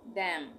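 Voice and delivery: "डैम" drawn out, closing on M; silent N. Shown as a demonstration. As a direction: say "डैम" slowly with no N after it. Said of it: "एन silent कर देंगे". ("डैम", धीरे से, आख़िर का न silent)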